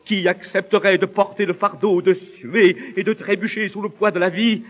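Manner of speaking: impassioned soliloquy gathering heat; mounting indignation. Acted. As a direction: pile up the grievances with rising force. Soliloquy builds to indignant outburst.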